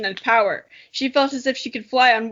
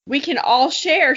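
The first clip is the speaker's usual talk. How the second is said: laughing line; 3 semitones higher, 4 dB louder than usual. Acted. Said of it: "she meowed".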